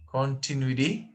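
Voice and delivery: "continuity" rising on the final TY; stress on last syllable. Shown as a demonstration. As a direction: test it as continui-TY, lifting the end. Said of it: "Where is the stress syllable?".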